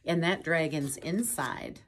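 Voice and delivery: witch telling friends they saved her; grateful. Acted. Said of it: "the grateful witch cried".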